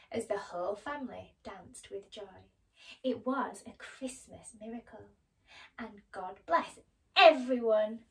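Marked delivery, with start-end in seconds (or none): 5.8-8.0 Tiny Tim. Acted. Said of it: "said Tiny Tim".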